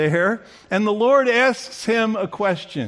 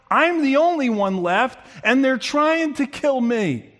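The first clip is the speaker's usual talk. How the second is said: whining Elijah; 6 semitones higher than usual. Acted. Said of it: "He says".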